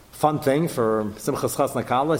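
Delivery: ordinary delivery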